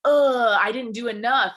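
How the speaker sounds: loud, high, whining groan of defeat; whiny self-pity. Retold or imitated. Mocking her own discouraged inner voice, whiny. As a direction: wail it like you've failed.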